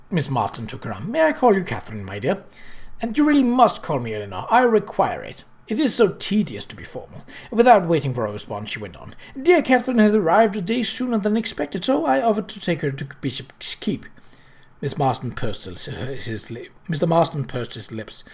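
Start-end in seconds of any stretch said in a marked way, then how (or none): 1.1-7.2 lightly voiced chatty lady, a bit higher; lightly voiced effusive Eleanor; gushing society lady. Eleanor's gushing voice, narrator reads. 9.4-14.1 lightly voiced chatty lady, a bit higher; lightly voiced effusive Eleanor; gushing society lady. Eleanor speaks again.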